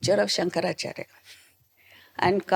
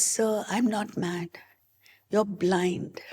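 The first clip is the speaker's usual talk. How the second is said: slow, soft, unbothered; near-whispered calm denial; hushed calm reply; 6 dB quieter, slower than usual. Retold or imitated. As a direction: answer the anger quietly and slowly. Calm reply to angry officer.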